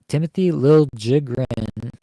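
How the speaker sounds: Liljegren said LIL-JIG-rin, with a hard j; new requested pronunciation. Shown as a demonstration. Podcaster showing fans the player's requested name, Liljegren as LIL-JIG-rin. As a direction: sound out Liljegren as "Lil Jigrin". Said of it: "asked for his name to be pronounced that way".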